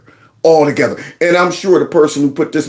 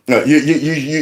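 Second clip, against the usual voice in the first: ordinary delivery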